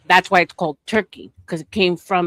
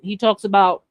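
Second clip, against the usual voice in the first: talking with food in mouth; words round a bite of food; mouth full; 2 semitones higher than usual. Real, not acted. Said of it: "sorry, I have food in my mouth".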